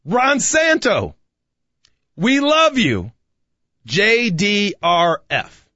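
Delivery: high, drawn-out ballpark holler; demonstrated crowd yell. Shown as a demonstration. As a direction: call it slowly across a stadium, held back from full volume. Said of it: "just gonna yell as loud as I can".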